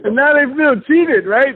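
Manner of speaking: laughing through the words; a giggle carries the line; laughing as he tells it. Real, not acted. Laughing at own story.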